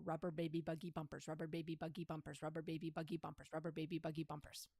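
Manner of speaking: fast, repeated articulation drill; quick voice-actor warm-up; tongue twister drill. Shown as a demonstration. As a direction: rattle it off crisply. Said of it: "you can do, uh, tongue twisters".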